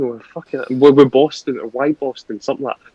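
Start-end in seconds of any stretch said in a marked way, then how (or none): 0.8-2.4 Wyboston first as WIB-oston, then as WHY-boston; comparing pronunciations. Real, not acted. Weighing two ways to say the place name, WIB-oston versus WHY-boston. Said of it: "how do you pronounce this place?".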